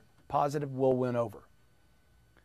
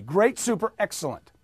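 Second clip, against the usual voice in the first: bright call-and-repeat positives; upbeat drill; 3 semitones higher than usual. Shown as a demonstration. Coach leading the audience drill, upbeat. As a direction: pump the words for the class to echo. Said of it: "Just repeat after me".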